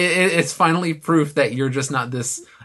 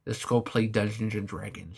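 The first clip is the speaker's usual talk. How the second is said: softer, lisping nerd voice, lightly done; spitty lisping nerd; 4 semitones lower, 8 dB quieter than usual. Shown as a demonstration. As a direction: lisp it with a wet mouth. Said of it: "big nerd who talks with all the spit in his mouth".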